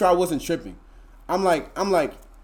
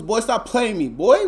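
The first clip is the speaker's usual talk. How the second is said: higher and louder, mock-offended; higher, louder protest at a viewer; indignant outburst; 8 semitones higher, 6 dB louder, slower than usual. Real, not acted. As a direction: call out the chat, half laughing. Reacting to chat calling him T Nichols.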